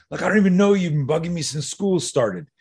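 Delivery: indignant retort. Retold or imitated. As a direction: act out a fed-up kid answering back. Bullied student answers back, retold.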